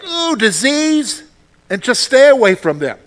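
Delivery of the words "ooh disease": high, slow, drawn-out mock disgust. People shunning a leper, high slow mock disgust. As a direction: recoil at the sick person. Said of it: "There would be people like".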